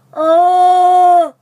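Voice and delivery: loud high whooping call; Bigfoot call. Pretend. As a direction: holler like a wild creature. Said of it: "let me do a Bigfoot call".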